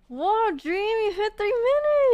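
high, loud burst of amazement; excited cheer. Real, not acted. Friend cheering Dream hitting three minutes, excited high shout. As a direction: cheer them on, voice soaring.

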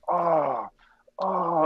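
retold "aah" of shock; pained cry. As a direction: re-enact a pained moan, held long. Acts out reaction to ear injury.

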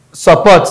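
support said with PORT stressed, sup- light. Shown as a demonstration. Teacher showing support's second-syllable stress. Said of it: "support is having second syllabic stress".

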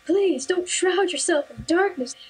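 a hint of a stranger sermonizing; preachy religious man. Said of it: "and goes".

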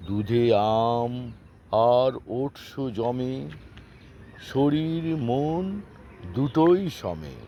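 chopped, word-by-word rhyme recital; staccato. Acted. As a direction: recite the rhyme in clipped chunks. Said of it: "আমি কেটে কেটে বলবো".

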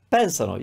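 PENsano, stressed on the first syllable; stress before the ending. Shown as a demonstration. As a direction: hit PEN in pensano and let -sano fall. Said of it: "put the stress somewhere before".

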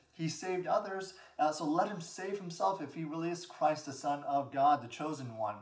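a touch of a taunt; retold sneer. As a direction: imitate scoffers, settling down by the end. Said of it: "they sneered at him".

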